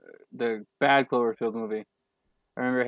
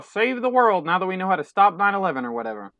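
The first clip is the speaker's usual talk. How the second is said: mock-heroic, raised and higher; 8 semitones higher, 4 dB louder than usual. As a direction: puff it up like a movie hero. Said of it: "They're like".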